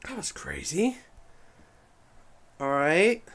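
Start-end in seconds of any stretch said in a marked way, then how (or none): 0.1-1.0 whispering. Real, not acted. Awed reaction after watching clip.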